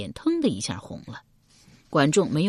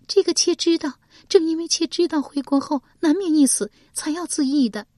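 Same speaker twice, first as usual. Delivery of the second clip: bitter lament; 12 semitones higher, 4 dB louder than usual. A narrator's reading. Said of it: "蔡新苦道".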